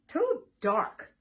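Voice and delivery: loud fearful egg; loud scared refusal. Acted. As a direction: recoil from the dark.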